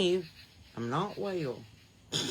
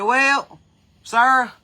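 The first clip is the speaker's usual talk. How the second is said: lightly voiced old farmer, a touch higher and louder; old man voice; 7 semitones higher, 11 dB louder than usual. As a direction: play the old feed-store man, drawn out. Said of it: "And he said".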